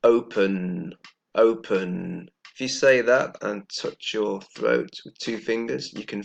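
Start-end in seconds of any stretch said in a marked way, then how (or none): 0.0-2.3 "open" with a voiced final n; model pronunciation. Shown as a demonstration. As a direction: say "open" clearly, feel the buzz. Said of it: "Let's listen".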